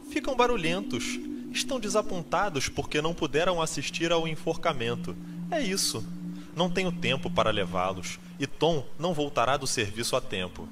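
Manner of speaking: voz de mulher mais aguda, em falsete leve; mãe aflita. A narrator's reading. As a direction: narrador faz a mãe se explicando, em tom agudo. Mãe justifica os filhos ao visitante. (mãe se justificando, voz aguda)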